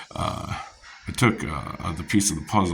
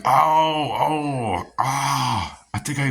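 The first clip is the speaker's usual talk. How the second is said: high, loud put-on gasp of surprise; mock surprise; 8 semitones higher, 5 dB louder, much slower than usual. To mom, pretending to find the missing piece, hammed-up surprise. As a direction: ham up the innocent discovery.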